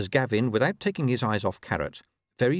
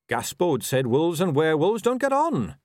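mildly insistent, higher-pitched patience; patient; 7 semitones higher, 4 dB louder than usual. A narrator's reading. Carrot reasons with Angua about wolves, patiently. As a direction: press the point patiently. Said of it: "said Carrot patiently".

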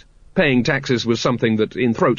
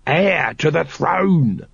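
slow, patient explanation; patient explaining; 5 semitones higher, much slower than usual. A narrator's reading. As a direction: spell it out patiently. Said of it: "said Throat patiently".

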